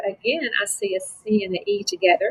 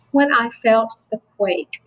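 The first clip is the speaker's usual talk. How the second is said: "When I felt the quake" as one connected group; one phrase; 2 semitones higher than usual. Shown as a demonstration. Teacher showing a phrase, "When I felt the quake" joined up. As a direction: run "When I felt the quake" together as a unit. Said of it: "is a phrase".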